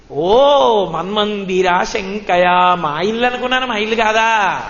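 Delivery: mock astonishment, drawn out at first; feigned innocent surprise. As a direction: play the child caught out, voice lifted. Child Krishna's acted feigned surprise.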